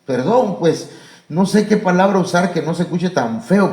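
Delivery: ordinary talk, nothing marked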